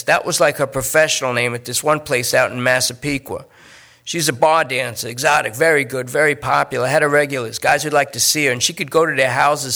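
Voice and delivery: a nervous addict talking his way out; junkie Lester. Acted. Lester talks about girlfriend.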